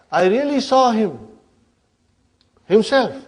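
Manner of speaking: pause, then land "himself" high for emphasis; emphatic. Shown as a demonstration. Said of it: "emphasizing it".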